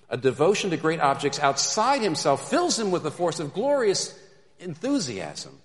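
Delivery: loud, high, forceful preaching; impassioned rereading. Real, not acted. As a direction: drive the quote home at full force. Emphatic rereading of key quote.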